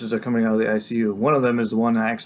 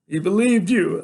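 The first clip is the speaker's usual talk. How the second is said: raised, higher-pitched accusation; hurt, indignant outburst; accusing boy; 8 semitones higher, 5 dB louder, slower than usual. A narrator's reading. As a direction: throw it at the doctor as blame.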